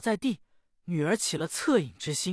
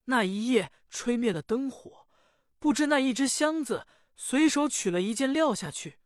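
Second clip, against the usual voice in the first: put-on higher, alarmed cry of a girl in trouble; panicked young lady; 5 semitones higher than usual. Young lady finds the red garment gone, panicked and higher. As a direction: gasp it out as disaster strikes.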